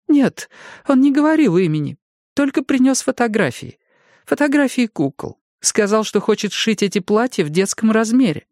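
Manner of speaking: высокий испуганный старческий голос; старушка в ужасе; взволнованная старушка. A narrator's reading. Jenny answers. (голос потрясённой старушки)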